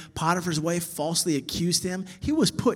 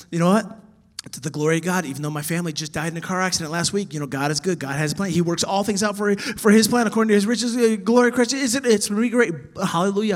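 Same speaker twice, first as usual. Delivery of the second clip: a hint of a forced, louder upbeat believer; mock churchy cheer; 2 semitones higher, 5 dB louder, faster than usual. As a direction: rattle off pious lines too brightly. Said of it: "they're like".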